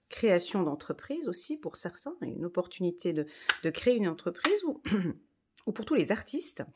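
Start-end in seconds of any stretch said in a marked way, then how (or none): 4.6-6.6 voix gênée par un chat dans la gorge; gorge irritée. Real, not acted. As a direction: parler en se raclant la gorge. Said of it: "j'ai quelque chose dans la gorge". (gorge qui gratte)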